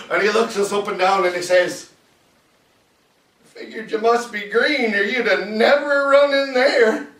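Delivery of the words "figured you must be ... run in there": a hint of an old veteran, pitched up; lightly voiced old soldier. Old guy sizing up the troops, lightly voiced and higher. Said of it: "there's this old guy".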